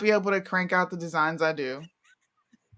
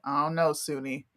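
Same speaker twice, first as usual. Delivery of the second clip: timid mock reply; 4 semitones lower, 5 dB quieter than usual. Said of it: "And you're like".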